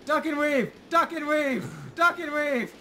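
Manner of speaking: high, loud chant of instructions; excited shouting. Real, not acted. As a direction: shout it at the screen, laughing.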